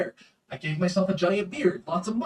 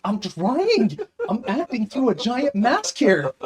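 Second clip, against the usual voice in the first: laughing; 8 semitones higher, 6 dB louder, slower than usual. Retold or imitated. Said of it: "I'm like".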